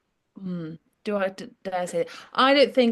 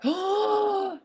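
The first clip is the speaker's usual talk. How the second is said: gasp oh; 12 semitones higher than usual. Retold or imitated.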